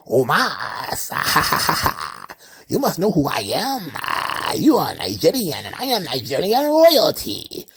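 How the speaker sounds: put-on Apollo Crews in a playful Nigerian accent; mock Nigerian accent. Apollo Crews recruiting Omos, mock Nigerian accent. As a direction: woo him grandly in a Nigerian accent. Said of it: "he goes up to Omos and says".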